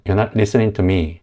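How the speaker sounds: listening slowly ending in in; dropped g, slow. Shown as a demonstration. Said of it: "ing이 아니라 그냥 in". (in으로 끝내며 천천히)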